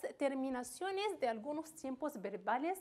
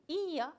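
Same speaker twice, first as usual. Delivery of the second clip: "Ia" with a drawn-out, stressed I; 4 semitones higher, 4 dB louder than usual. Shown as a demonstration. Teacher showing the accented verb ending, stress on the I of "Ia". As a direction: lean on the "I" in "Ia", then let the a follow. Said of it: "acento sobre i".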